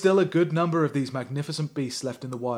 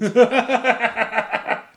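loud laugh; 9 semitones higher, 9 dB louder than usual. Real, not acted. Cracking up at the text.

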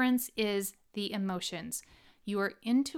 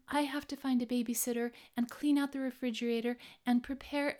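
high self-pitying whine; whining voice; 4 semitones higher than usual. Acted. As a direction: whine like a martyr. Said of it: "Did you like that whining voice?".

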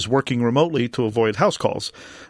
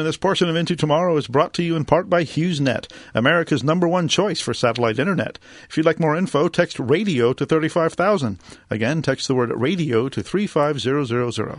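sponsor read; 3 semitones higher than usual. Acted. Host reads sponsor message.

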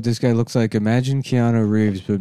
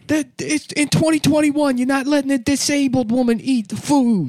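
much higher, indignant woman voice; shrill lady voice; 14 semitones higher than usual. Retold or imitated. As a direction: play an outraged lady demanding service. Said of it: "a lady like".

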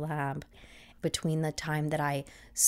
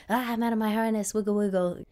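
dog's happy voice; 6 semitones higher, 4 dB louder, faster than usual. Retold or imitated. Dog's voice acted out.

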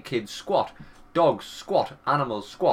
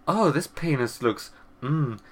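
tasty yum mmm; slower than usual. Pretend. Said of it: "they're like".

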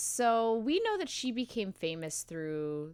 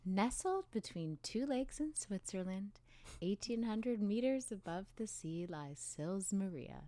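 lighter, softer calming read; brighter narration; 8 dB quieter than usual. Shown as a demonstration. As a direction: narrate like a soothing spa guide. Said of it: "I'll make my voice a bit brighter".

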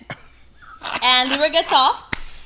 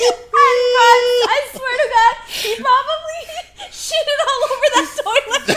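higher voice cracking into laughing tears; crying with laughter; 7 semitones higher than usual. Real, not acted. Telling a friend the Taco Bell story, crying with laughter. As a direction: laugh until tears come.

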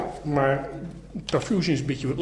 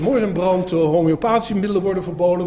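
louder, mocking the homeopaths' alarm; a hammed-up alarm call, slightly raised; mock outcry; 5 dB louder than usual. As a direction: cry murder in jest, imitating the panic.

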